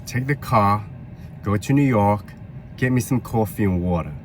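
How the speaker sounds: put-on light New York accent; bossy New Yorker sending someone on errands. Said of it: "I also dabbled in the New York accent today".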